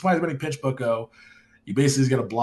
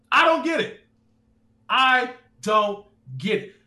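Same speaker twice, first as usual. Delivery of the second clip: higher, baffled rant; exasperated disbelief; 9 semitones higher, 4 dB louder than usual. Real, not acted. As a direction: throw up your hands in real disbelief. Ranting about Riverdale dialogue.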